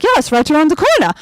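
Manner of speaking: put-on helpful Norwegian tourist accent, quick. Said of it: "this Norwegian couple".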